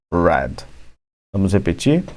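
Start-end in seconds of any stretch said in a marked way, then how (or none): none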